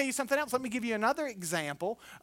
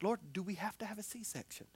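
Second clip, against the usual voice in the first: softer, hushed plea to God; quiet prayer; 2 semitones lower, 13 dB quieter than usual. Real, not acted. Husband silently praying in the delivery room, hushed. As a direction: ask the Lord gently.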